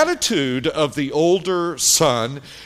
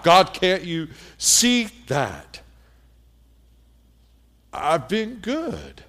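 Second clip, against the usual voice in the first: put-on self-righteous older son; 3 semitones higher than usual. Older son listing his virtues to his father, mildly whiny. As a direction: whine your good record at Dad, then settle smugly. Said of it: "he looks at his dad and he says".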